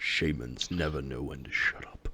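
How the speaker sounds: very quiet, very low, deep hushed whisper. In a tabletop game, voicing a character who whispers to the player, in a whisper. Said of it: "That's what he whispers to you".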